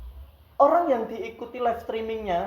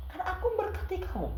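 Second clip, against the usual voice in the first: voice of God; 11 semitones higher, 9 dB quieter than usual. Acted. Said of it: "Tuhan bilang".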